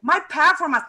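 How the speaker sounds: performance said PER-formance, beat up front; mock misstressed "My PER-formance"; imitated wrong stress. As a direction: mimic the mistake, hitting "per" in performance. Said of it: "everybody say".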